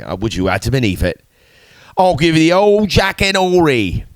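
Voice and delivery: playful London geezer impression; mock London accent. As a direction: put on a cheeky London Cockney voice. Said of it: "I could do a good London accent".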